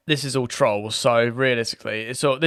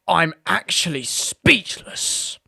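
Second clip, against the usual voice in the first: stunned customer; 3 semitones higher, much slower than usual. Acted. Complainer's stunned reply.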